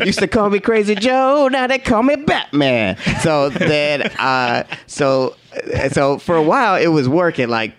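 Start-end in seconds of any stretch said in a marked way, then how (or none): 0.1-3.0 high, laughing brag about the new nickname; laughing boast. Retold or imitated. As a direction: crow it out while laughing. Joking boast about his new status.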